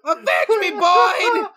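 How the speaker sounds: dying father. Retold or imitated. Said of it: "His last words to me were".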